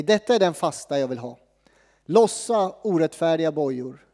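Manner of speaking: measured Bible reading; scripture reading. Acted. Reads scripture.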